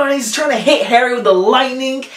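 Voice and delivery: ordinary talk, nothing marked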